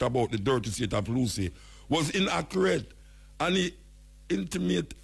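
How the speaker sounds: reading the article aloud in a news voice; news report reading. Acted. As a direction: read the Gleaner piece like a bulletin. Reads out newspaper report.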